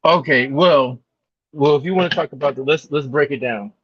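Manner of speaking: muffled, bubbly bad-mic sound; underwater voice. Real, not acted. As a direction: voice warbling like under water. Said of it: "it sound like you underwater".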